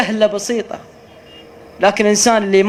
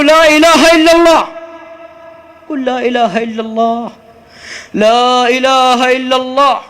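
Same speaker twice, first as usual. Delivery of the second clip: urgent coaxing; 5 semitones higher, 4 dB louder than usual. Retold or imitated. Sheikh urging the dying driver.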